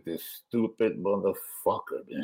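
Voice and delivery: hushed, muttered under the breath; retold whisper. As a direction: whisper it so the driver can't hear. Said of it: "just whispering, I said".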